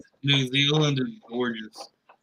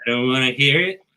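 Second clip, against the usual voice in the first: put-on New Zealand accent; 6 dB louder than usual. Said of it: "you are doing a band".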